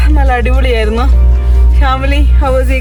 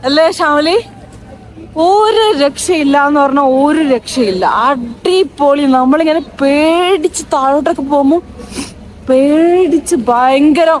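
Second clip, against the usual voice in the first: thrilled, voice pitched up high; buzzing right after the ride; excited; 4 semitones higher than usual. Real, not acted. Thrilled right after roller coaster. (ആവേശത്തോടെ ഉയർന്ന ശബ്ദത്തിൽ)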